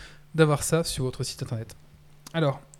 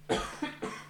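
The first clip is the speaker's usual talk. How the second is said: sudden coughing fit; choking cough; 13 dB quieter than usual. Real, not acted. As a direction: sputter and cough as if choking on a drink. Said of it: "Excusez-moi, je m'étouffe".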